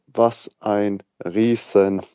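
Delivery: slow, word-by-word verdict; emphatic disgust. Retold or imitated. Recalling the cinema reaction to Cole, slow emphatic disgust. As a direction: spell out the insult slowly, with a pause.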